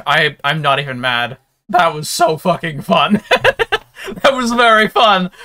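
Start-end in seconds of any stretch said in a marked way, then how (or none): 1.7-5.3 laughing high and loud. Real, not acted. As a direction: laugh through the words. Laughing after wild fight.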